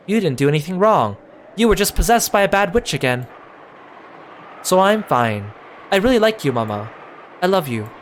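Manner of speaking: a lightly voiced small child, innocent and cheerful; sweet child proud she stayed strong; a lightly done young daughter greeting her mother; little girl. Maria comforts mother.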